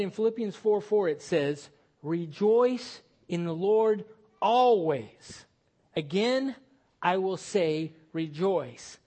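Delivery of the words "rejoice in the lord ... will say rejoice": slow, solemn reading of the verse; measured scripture recitation. Acted. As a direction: read it like holy writ. Scripture read slowly.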